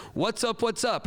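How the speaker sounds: high, punchy attention call; teacher's call-out. Shown as a demonstration. Teacher cueing students for attention, high call-out. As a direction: call it out across a classroom. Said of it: "I would say to my students".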